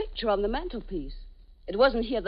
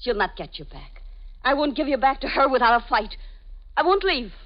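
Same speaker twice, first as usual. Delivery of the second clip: defiant; 2 semitones higher, 3 dB louder than usual. Acted. Jealous lover refuses to leave.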